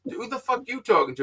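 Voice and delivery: high-pitched indignant challenge; retold angry challenge. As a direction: act out squaring up to someone. Retold challenge while grabbing him.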